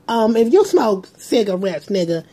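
put-on comedian voice, stretched words; terrible Cat Williams. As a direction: do a bad comic impersonation. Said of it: "terrible Cat Williams impersonation".

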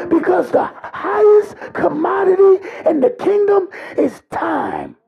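shouted, rising sermon climax that keeps pushing; full-force preaching. Acted. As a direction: preach it hard, calling out to the congregation.

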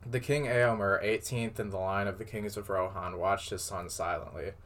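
measured read-aloud storytelling voice; story narration. A narrator's reading. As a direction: read it out like a tale. Reads fan fiction aloud.

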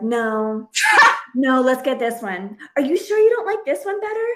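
steer him to your shirt, laughing; laughing mock pushiness. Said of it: "I was like".

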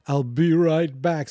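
high mock panic, slowing at the end; mimicking a panicky plea. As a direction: squeak it out like a scared woman. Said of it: "She's like".

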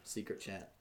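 hushed whisper while a friend is on the phone; secret whisper. Real, not acted. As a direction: drop to a whisper so he isn't overheard. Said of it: "we had a little secret chat".

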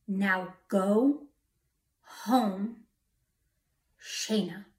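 word by word, long pauses between; measured, weighty command from an unseen voice; solemn commanding voice. Retold or imitated. Unseen voice calling the stranded driver, solemn command. The voice heard a third time.

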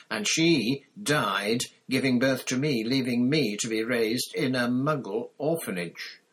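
ranting dark lord, rising; Voldemort voice. Acted. Voldemort's long speech.

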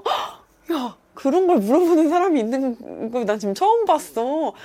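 gasping, high hammed-up amazement; loud theatrical astonishment to shame them; mock shock. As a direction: make a big show of disbelief. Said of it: "약간 이렇게 해가지고".

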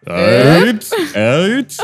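«Αιτ» clipped to a short rustic shout of άιντε; village-style aïnte. Shown as a demonstration. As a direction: bark «Αιτ, αιτ» like a villager hurrying someone. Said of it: "πιο χωριάτικο άιντε που μπορείς να πεις".

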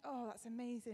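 understated, restrained congratulation; straight-faced. Retold or imitated. Congratulating a friend while hiding her own news, straight-faced. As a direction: hold back what you know. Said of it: "keep a straight face and said".

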